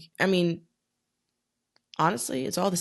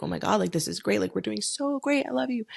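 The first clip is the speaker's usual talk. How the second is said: high, gushing lovestruck teen voice, mocking her old self; gushing in love; 5 semitones higher, faster than usual. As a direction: replay your younger self cooing over a boyfriend. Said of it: "I'm like".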